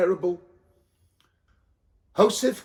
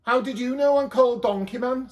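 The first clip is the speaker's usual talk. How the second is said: higher, louder mock surprise; surprised donkey man; 6 semitones higher, 5 dB louder than usual. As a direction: act amazed he's known. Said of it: "said the donkey man".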